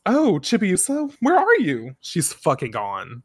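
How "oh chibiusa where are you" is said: a touch of a worried mother calling out; lightly voiced mom calling for her kid. Mom searching for her missing daughter, lightly calling. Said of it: "Ikuko says".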